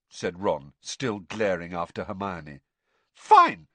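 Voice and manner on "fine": loud, high, cross snap; snapped. A narrator's reading. Padma giving up on Ron as partner, snapping. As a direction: snap it out, offended. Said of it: "snapped Padma".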